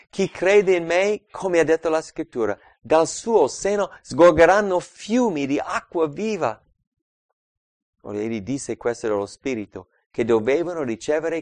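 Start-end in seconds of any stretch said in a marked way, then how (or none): 0.1-6.6 exclaiming. Acted. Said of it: "ed esclamò dicendo".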